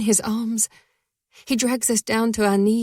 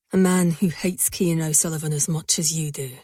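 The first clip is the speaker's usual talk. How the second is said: male voice; 5 semitones lower than usual. A narrator's reading. Male lover's voice.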